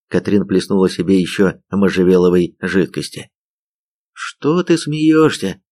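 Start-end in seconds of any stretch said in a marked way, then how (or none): 4.1-5.6 high, slow, plaintive question; drawn-out plaintive protest. A narrator's reading. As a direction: stretch it into a pitched-up complaint. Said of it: "жалобно спросил Женька".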